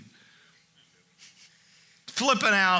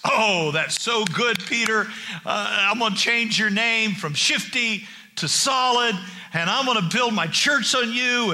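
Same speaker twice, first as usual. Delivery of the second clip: slowing shouted celebration; excited praise; 3 semitones higher than usual. Acted. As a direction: hype him up like a coach. Jesus voiced praising Peter.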